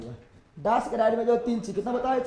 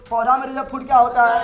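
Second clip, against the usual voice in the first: quick and louder quiz question; rapid-fire drill; 6 dB louder than usual. Shown as a demonstration. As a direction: fire it off fast so the class answers at once. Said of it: "जल्दी जल्दी बोलो, फटाफट".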